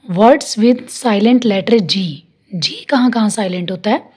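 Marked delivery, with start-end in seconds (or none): 0.1-2.0 slow, clear heading; teacher reading a heading slowly; slow announced topic. Shown as a demonstration. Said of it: "next है".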